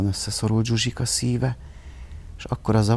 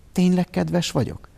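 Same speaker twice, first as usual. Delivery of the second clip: suspicious; 8 semitones higher than usual. A narrator's reading. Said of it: "kérdezte gyanakodva".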